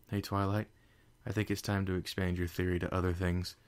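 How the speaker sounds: out of breath; panting. Acted. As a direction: talk while panting.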